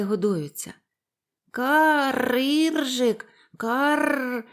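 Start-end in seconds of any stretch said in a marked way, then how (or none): 1.5-4.4 higher, louder happy cawing; cheerful raven caws. A narrator's reading. Fed young ravens thanking Іржик, joyful loud caws. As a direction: caw it out gleefully like young ravens. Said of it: "весело закричали воронята".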